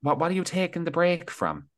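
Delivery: high, incredulous teasing; playful high-pitched disbelief at a friend; mock disbelief. Real, not acted. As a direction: ask it like it makes no sense. Mocking friend's break announcement.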